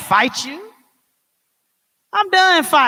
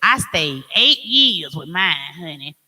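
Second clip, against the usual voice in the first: gossipy friend; slower than usual. Retold or imitated. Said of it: "same person told you".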